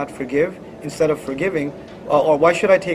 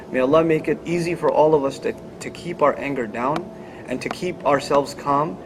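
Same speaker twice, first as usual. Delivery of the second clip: lower, subdued prayer voice; closing prayer; 3 semitones lower than usual. Real, not acted. Speaker asks Allah to help all forgive family, subdued prayer.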